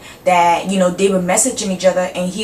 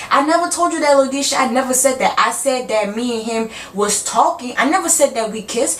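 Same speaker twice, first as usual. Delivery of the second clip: mock innocent girl; 3 semitones higher than usual. Girl keeps denying to Lodisha.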